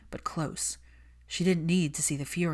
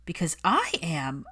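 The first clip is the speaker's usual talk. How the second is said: checked outburst; 3 dB louder than usual. Acted. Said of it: "Hermione stopped herself".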